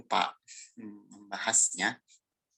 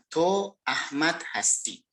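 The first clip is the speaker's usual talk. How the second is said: TO AHMAD HASTI as a plain statement, falling at the end; statement intonation; 3 semitones higher, slower than usual. Shown as a demonstration. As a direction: say 'To Ahmad Hasti' slowly, ending like a full stop. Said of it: "dengan intonasi biasa". (intonasi pernyataan, 'To Ahmad Hasti' datar turun)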